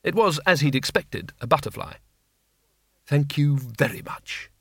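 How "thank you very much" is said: bitter. A narrator's reading. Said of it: "he said bitterly".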